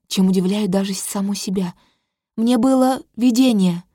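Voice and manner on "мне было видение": loud, higher proclamation; growing louder. Acted. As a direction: announce it boldly. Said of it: "Голос набирает громкость". (громко, с нарастанием)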